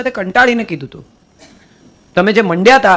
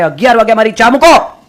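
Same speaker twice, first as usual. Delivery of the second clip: louder mock call for tea; 2 semitones higher, 7 dB louder than usual. Would-be saint demanding his tea, mock shout. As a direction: bark the order across the house. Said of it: "બૂમ પાડે".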